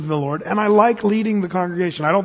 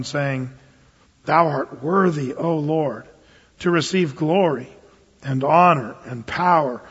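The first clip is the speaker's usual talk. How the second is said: solemn scripture reading. Acted. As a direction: read it like holy writ, unhurried.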